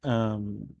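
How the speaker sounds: stiffly courteous guard; polite guard. Acted. Guard greeting the dragon rider, stiffly courteous. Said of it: "They're like".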